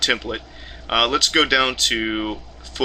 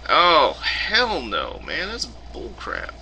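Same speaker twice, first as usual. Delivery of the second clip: slow, drawn-out disgust fading to a mutter; 4 semitones higher, slower than usual. Real, not acted. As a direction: groan at the bad news. Disgusted reaction.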